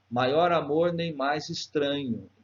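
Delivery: slow, measured reading of the verse; syllable-by-syllable scansion. Shown as a demonstration. Teacher scanning a verse for students, slow and measured. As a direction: measure out "Maior amor nem mais estranho" syllable by syllable. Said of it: "separar as sílabas normalmente".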